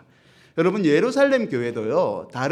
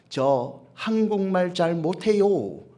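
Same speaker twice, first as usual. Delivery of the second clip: put-on halting foreign-accented Korean; 4 semitones higher, slower than usual. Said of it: "이런 분들 있잖아요".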